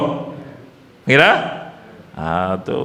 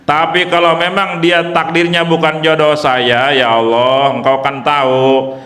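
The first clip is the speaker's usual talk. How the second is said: earnest prayer; 3 semitones lower than usual. Shown as a demonstration. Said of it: "Suka doa begitu?".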